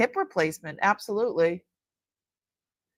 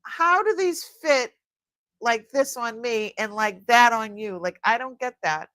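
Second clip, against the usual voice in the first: exasperated mock complaint to husband. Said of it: "I said to my husband".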